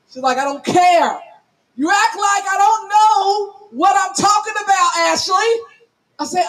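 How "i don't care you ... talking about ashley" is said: mildly indignant sister going off; imitated telling-off. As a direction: scold like a fed-up sibling, lightly acted. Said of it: "she went off on me".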